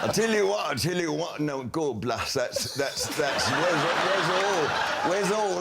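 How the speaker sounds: mock West Country cricket commentary, hammed-up; lightly put-on West Country accent, brisk commentary. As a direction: play a rustic West Country commentator calling a bowler in. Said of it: "Also, West Country now".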